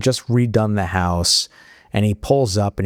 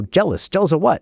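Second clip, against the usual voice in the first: climbing higher, incredulous echo; retold surprise; 10 semitones higher than usual. Son hears his dad admit jealousy, rising surprise. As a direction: repeat the word, higher each time in disbelief. Son reacting to dad's confession.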